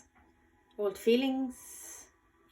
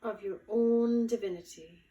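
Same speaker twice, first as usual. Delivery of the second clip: guided meditation. Acted. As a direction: guide them gently, unhurried, lingering on key words. Leads a guided visualization.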